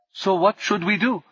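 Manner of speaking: high, lilting calm question. Acted. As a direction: ask it evenly amid the chaos. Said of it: "his lilting voice calmer than anyone else's".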